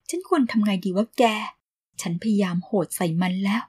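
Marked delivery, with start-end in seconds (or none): none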